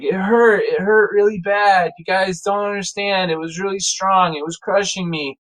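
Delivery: put-on whiny kid pleading to be believed; lightly sobby, aggrieved protest; tearful mock complaint. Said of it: "I'm snot and tears".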